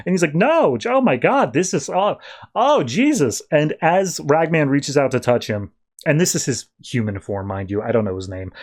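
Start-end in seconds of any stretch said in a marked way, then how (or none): 0.3-3.4 higher, hammed-up stammering dismay; overplayed distress, stumbling; mock panic. Clayface refusing Ragman's comfort, mock panic.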